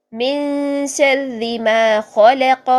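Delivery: very slow, drawn-out Quran recitation. Shown as a demonstration. Teacher reciting Surah Falaq as an example. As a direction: recite it long, bouncing the final ق. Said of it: "قاف پھر سے ہلایا".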